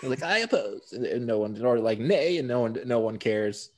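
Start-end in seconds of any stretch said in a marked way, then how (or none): 0.2-0.9 mock emphatic objection. 2.0-2.4 mock emphatic nay.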